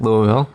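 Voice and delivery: "Louisville." said loo-vil, rising; local Louisville. Shown as a demonstration. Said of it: "We were taught how to say it".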